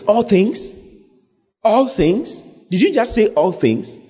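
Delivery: high-pitched, rising disbelief; amazed questioning. Acted. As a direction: marvel at it as if just hearing it. Reacts in amazement to the verse.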